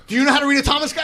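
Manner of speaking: New York attitude. Retold or imitated. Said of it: "the typical New York attitude".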